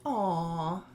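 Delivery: drawn-out "aw" quoted as a reaction; a mild, put-on coo over something cute; mock cooing. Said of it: "I wouldn't say".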